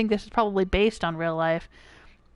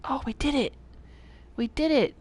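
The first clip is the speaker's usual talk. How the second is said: excited cheer; triumphant; 5 semitones higher than usual. Real, not acted. Level solved after tense whisper.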